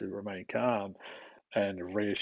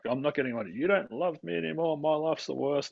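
higher, whiny imitation of a five-year-old melting down; child tantrum; 6 semitones higher than usual. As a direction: lightly act out a kid's sulky tantrum. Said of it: "just snaps and they're like".

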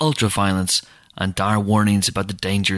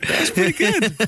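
laughing. Real, not acted. Laughing after impression.

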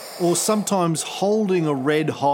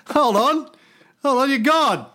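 put-on higher-pitched, indignant Scottish accent; Scottish God; 7 semitones higher than usual. God objecting to being told his job, indignant Scottish accent. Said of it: "I don't know why God is Scottish".

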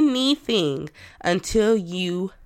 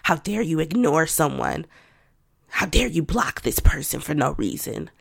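mock self-scolding. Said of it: "And I'm not like".

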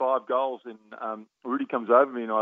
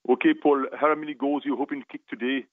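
put-on lilting West Indian accent, slightly raised; 3 semitones higher than usual. Sports psychologist questioning a young player before the game, West Indian accent. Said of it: "trying to do my West Indian accent".

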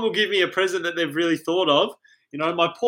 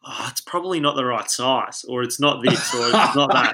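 polite excuse; 4 semitones lower than usual. Retold or imitated. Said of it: "I do it very politely".

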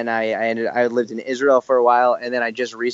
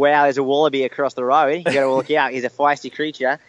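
put-on light American take on an Australian accent; playful, lightly put-on Australian accent; Australian accent impression; 2 semitones higher than usual. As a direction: fan showing off his Australian accent to the Australian host. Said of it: "do my best to impersonate it".

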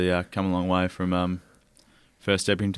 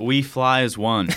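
slow, slightly higher attempt at an American accent; half-hearted American accent, drawn out; 4 semitones higher, slower than usual. Shown as a demonstration. Player doing the club line on the host's request, tentative American accent. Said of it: "in American accent".

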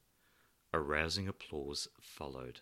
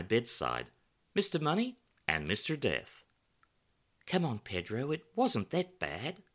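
raised, animated storytelling voice; lively character voice, higher and louder; 7 semitones higher, 7 dB louder than usual. A narrator's reading. Pedro recounts his penniless New York days, animated and loud. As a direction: perform the characters' banter, up high and loud.

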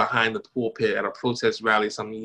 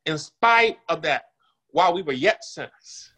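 preaching; 3 semitones higher than usual. Real, not acted. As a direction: lean into the sermon and build. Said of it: "Come on and preach".

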